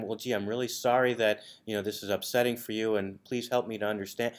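soft, syrupy fake sympathy; a sugary, condescending calm; mock-soothing sarcasm. Shown as a demonstration. To someone yelling, a soft condescending apology. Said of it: "that's antagonizing".

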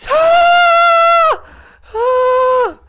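long high-pitched scream; terrified scream. Real, not acted. Player hit by a jump scare, terrified scream.

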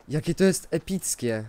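normal talking voice

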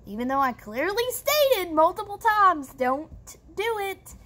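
exasperated, pitch swooping up high; fed-up and emphatic; exasperated emphasis. Real, not acted. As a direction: stress the ignored warning, word by word at the end. Stressing her ignored warning.

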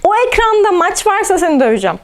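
loud joking scolding; mock angry threat. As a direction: playfully threaten him.

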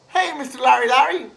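high, quick teasing hey; a brat greeting the hunter teacher; mocking greeting. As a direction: needle him with a bright hello. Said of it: "and saying".

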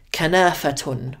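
kanafatun completo y despacio; Fusha pronunciation. Shown as a demonstration. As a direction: di kanafatun con la terminación clásica. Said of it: "instead of".

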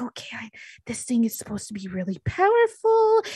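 slow, drawn-out musing with rising bursts; talking herself through a puzzle; thinking out loud. Acted. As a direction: work it out aloud to yourself, haltingly. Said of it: "loudly thinking to herself".

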